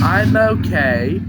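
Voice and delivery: slow, high, loud chirpy voice; cheerful Wendy. Acted. Severed Wendy reassures the trucks, chirpy and high. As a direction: chirp it brightly. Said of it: "Wendy smiled".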